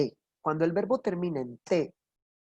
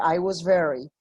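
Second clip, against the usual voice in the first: American pronunciation. Shown as a demonstration. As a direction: model the American sound of "I was very". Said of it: "suena súper americano".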